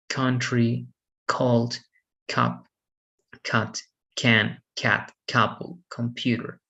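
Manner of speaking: "Country, cold, cup" starting with a hard K. Shown as a demonstration. Teacher giving examples of the rule, C as K. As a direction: say the C in "cat, couple, computer" as K. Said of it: "it is pronounced as".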